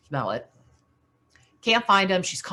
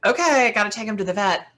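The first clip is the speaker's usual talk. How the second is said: panicked; 3 semitones higher, faster than usual. Retold or imitated. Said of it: "she's still panicked".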